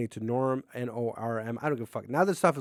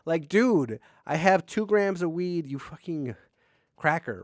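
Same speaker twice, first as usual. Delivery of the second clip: raised, slower exasperated retort; mild mock anger at the cop; annoyed retort; 4 semitones higher, 4 dB louder, slower than usual. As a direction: push back at the cop, fed up. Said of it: "I'm getting pissed".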